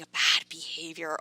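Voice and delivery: whispered aside; hushed, dramatic whisper. Real, not acted. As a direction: drop to a whisper on the label. Stressing the scary perception.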